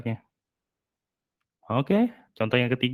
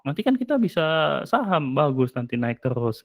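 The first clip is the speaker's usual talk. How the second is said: dismissive contradiction; 3 semitones higher than usual. Acted.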